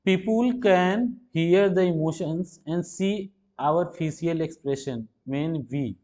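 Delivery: reading the sentence word by word, very slowly; slow reading aloud. Acted. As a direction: spell out each word slowly for the class. Reads question aloud slowly. (धीरे-धीरे वाक्य पढ़ना)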